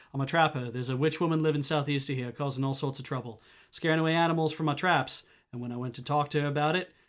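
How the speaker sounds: put-on trapper's lightly done Hadati accent; heavy Hadati drawl. Trapper telling visitors about the witch, Hadati drawl. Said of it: "drawled the man with a heavy Hadati accent".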